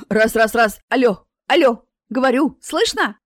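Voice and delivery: loud, hoarse voice through speakers; hoarse mic check. A narrator's reading. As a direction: test the mic like a loudspeaker. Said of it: "хрипела Марина".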